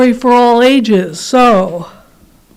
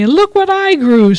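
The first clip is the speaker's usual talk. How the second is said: a touch higher, matching the boast; lightly voiced rival bunny; 6 semitones higher than usual. Other bunny answers the boast, lightly raised and proud. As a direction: answer the brag right back. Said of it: "says the other bunny".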